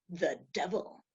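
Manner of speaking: lightly voiced low devil; quiet, low announcement as the devil. Apparition naming itself to woman in bed, low and quiet. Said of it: "And it went".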